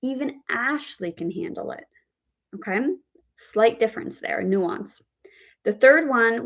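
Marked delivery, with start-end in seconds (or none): 0.0-1.8 ASHLEY lifted, said softly; stress on ASHLEY. Shown as a demonstration. Teacher repeats the second example, stress on ASHLEY. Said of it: "the stress on the name Ashley".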